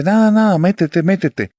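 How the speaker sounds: high, urgent, pressed, nada and métete tumbling out; a mother hustling her son through the door fast; urgent hushed hurry. Retold or imitated. Mother urgently pulling her son into the house, high and pressed.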